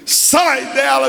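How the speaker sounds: high, drawn-out exorcism command; forceful command. Shown as a demonstration. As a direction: order it out with force. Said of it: "Mas eu não falei com força assim".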